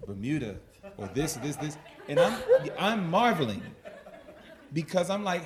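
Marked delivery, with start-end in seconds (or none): 0.1-1.8 offhand, lower-pitched listing; casual imitation of wife. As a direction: toss it off like it's nothing. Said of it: "my wife, again, you know, casually".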